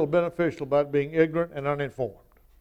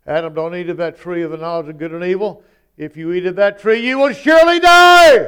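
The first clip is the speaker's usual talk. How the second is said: emphatic divine warning; 2 semitones higher, 9 dB louder than usual. Shown as a demonstration. Preacher voicing God warning Adam, building to a thunderous shout. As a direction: thunder the command, rising to a full shout at the end. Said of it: "I'm gonna say it to you the way it is that God said".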